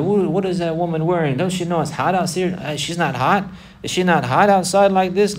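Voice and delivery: mock her clothes like a scornful gossip. Mockers sneering at a woman.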